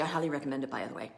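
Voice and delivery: soft whispered tip; whispered aside. Real, not acted. Coach whispering a book tip to her viewers, aside. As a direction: lean in and whisper the recommendation.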